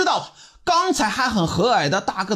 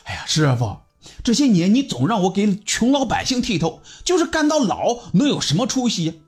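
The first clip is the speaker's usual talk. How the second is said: aggrieved; 2 semitones higher than usual. Acted. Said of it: "委屈的说道".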